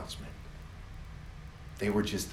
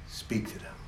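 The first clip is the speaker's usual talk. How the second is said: whispered urging; 5 dB quieter than usual. Acted.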